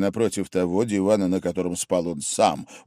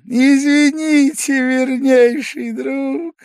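put-on high, slow, drunken cry of welcome; drunk exclaiming; 8 dB louder, slower than usual. A narrator's reading. Drunk guest cries out to his returning host. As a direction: gush it out like a tipsy host. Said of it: "вскричал он".

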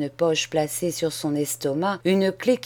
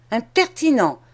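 snapped insult; 4 semitones higher, 4 dB louder than usual. Acted. Macmiche snaps at Charles.

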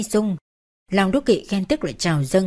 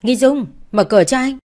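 calls through a closed door, a touch raised and higher; husband calling his wife to open the door; 5 semitones higher, 5 dB louder than usual. A narrator's reading. Husband at the door calls out to his wife, slightly raised. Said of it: "gõ tay nhẹ nhẹ gọi".

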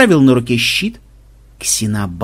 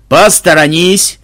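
slow, louder command; knight shout; 4 semitones higher, 7 dB louder, slower than usual. A narrator's reading. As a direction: order them aside. Knight charges at vampire.

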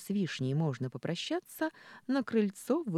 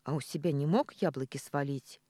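буркнула. Acted. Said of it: "буркнула она".

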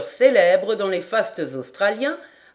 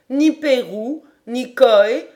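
rattling off names; 4 semitones higher, 6 dB louder, slower than usual. A narrator's reading. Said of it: "lancé comme un express".

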